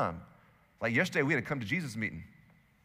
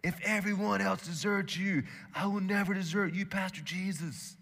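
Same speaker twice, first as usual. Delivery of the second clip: declared; 6 semitones higher than usual. Retold or imitated. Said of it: "he declared".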